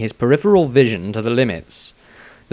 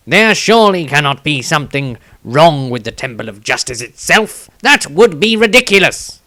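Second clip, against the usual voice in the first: higher, louder, rising disbelief; a halfling refusing to believe it; distressed Tobias; 4 semitones higher, 5 dB louder than usual. A narrator's reading. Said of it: "shook his head in some distress".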